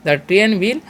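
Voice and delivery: very slow, word by word; slow classroom dictation; slow example sentence. Shown as a demonstration. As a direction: spell it out slowly for the class. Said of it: "ऐसे बोल सकते हैं".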